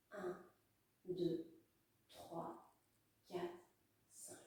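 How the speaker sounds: counting with breath held; holding breath. Real, not acted. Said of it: "Je bloque".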